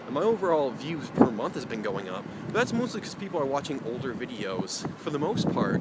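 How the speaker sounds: breathless, gasping between words; talking while short of breath. Real, not acted. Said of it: "holy shit, I'm out of breath".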